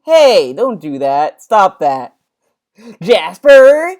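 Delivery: sharp parental telling-off, rising on the name; scolding parent. Acted. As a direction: call out like an annoyed parent. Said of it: "the parent was like".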